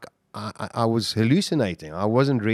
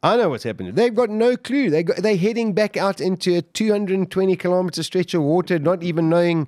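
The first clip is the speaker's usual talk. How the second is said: agitated, emotional; 9 semitones higher than usual. Real, not acted. Reliving friends' desperate search.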